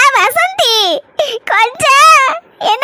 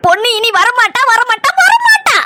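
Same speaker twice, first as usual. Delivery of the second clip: gloating; 2 semitones higher, slower than usual. Acted. Telling Chinna the girl won't return, slow gloating sing-song. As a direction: drag it out, enjoying it.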